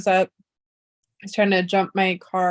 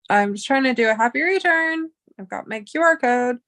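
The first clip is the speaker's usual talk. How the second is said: higher-pitched imitated plea; retold protest; 4 semitones higher than usual. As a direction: mildly plead with unhelpful store staff. Retold plea to unhelpful store staff.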